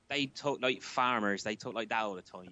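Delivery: British country yokel accent; farmer's accent. Shown as a demonstration. Showing the Americans how British rednecks talk, farmer's accent. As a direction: talk like a rural English farmer. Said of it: "how does their accent go?".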